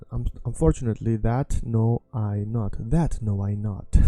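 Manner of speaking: that know I not, said slowly word by word. Shown as a demonstration. Teacher showing the literal word order, slowly. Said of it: "Sounds like old English".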